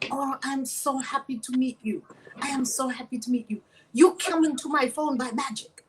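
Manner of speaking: lightly imitated Omani accent. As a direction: retell it in an Omani man's English. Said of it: "He's saying all this in his accent from Oman".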